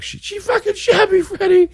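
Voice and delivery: very high, strained dying gangster; Reservoir Dogs quote. Retold or imitated. Quoting a shot gangster from the movie, in a high strained voice. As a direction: gasp it out like a shot man bleeding in a car. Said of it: "the scene in Reservoir Dogs".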